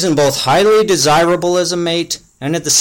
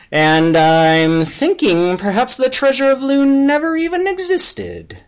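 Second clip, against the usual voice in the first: higher whiny elf voice; nervous little elf, voiced higher; higher character voice; 10 semitones higher than usual. Yobobins speaks in story.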